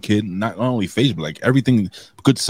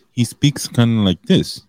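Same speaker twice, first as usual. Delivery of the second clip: slowed-down imitation of deaf speech; imitating deaf wrestler's speech; 3 semitones higher, 4 dB louder, slower than usual. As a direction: imitate his way of speaking, slowly. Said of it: "I noticed that when he speaks".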